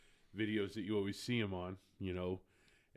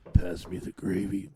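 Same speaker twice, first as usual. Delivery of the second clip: sexy voice; 9 dB louder than usual. Pretend. Sexy voice bit continued.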